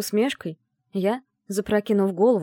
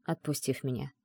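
ordinary delivery

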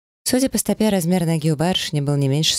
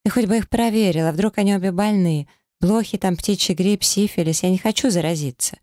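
higher, rapid-fire panic; rattling off; 6 semitones higher than usual. A narrator's reading. Panicked wife rattling on to her husband, higher. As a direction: gabble the fears out pitched up. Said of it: "затараторила она".

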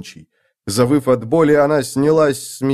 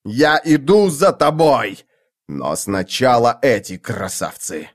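roaring. Acted. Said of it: "заревел он".

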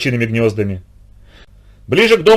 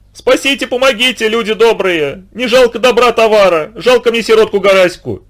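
much higher, sing-song wailing; keening lament; 7 semitones higher than usual. A narrator's reading. The wife keens on the riverbank for the drowned boy, wailing lament. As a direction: lament the lost, drawing out the words. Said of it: "всё причитала".

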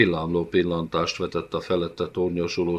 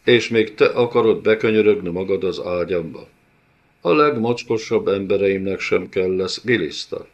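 louder contemptuous brute; sneering villain; 4 dB louder than usual. Acted. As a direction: spit the insult at her. (megvető gonosz úr)

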